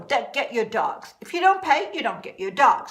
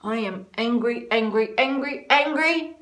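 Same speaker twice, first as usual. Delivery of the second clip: angry. Real, not acted. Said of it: "I'm just so angry".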